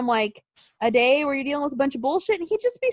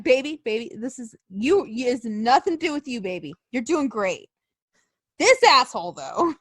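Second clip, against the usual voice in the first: mock reassuring husband; 4 semitones lower than usual. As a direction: soothe her, then a quick jab at the other guy. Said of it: "He'd be like".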